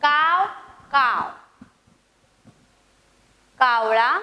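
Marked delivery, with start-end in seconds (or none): 0.0-1.3 two caws, first rising, second falling; crow call. Shown as a demonstration. Teacher voicing crow for pupils to repeat, up-down caws. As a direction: imitate a crow cawing. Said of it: "माझ्या मागं म्हणायचंय".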